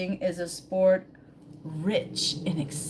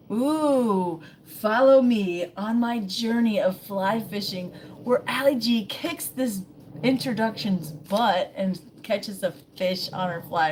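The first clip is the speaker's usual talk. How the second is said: excited announcement; 3 semitones higher, 4 dB louder than usual. Pretend. Hyping her own fishing journey.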